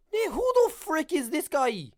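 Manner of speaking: high, loud, exaggerated Irish accent; Conor McGregor. Shown as a demonstration. Fight fan imitating the fighter's taunt, high loud Irish accent. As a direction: yelp it in a cocky put-on Irish accent. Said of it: "He's more like a".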